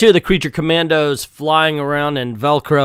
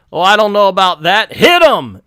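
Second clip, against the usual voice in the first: hammed-up put-on Asian accent, louder; mock Asian accent; 6 semitones higher, 5 dB louder than usual. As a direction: switch into a jokey Asian accent. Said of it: "I can do Asian accent".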